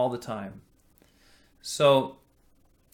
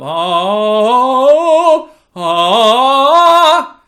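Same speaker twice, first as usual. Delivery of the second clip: loud, higher, squeezed oh; closed-throat sound; 9 semitones higher, 15 dB louder than usual. Shown as a demonstration. Teacher showing students a closing throat, a loud squeezed oh. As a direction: sing it with the throat clamping. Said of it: "The throat is closing up".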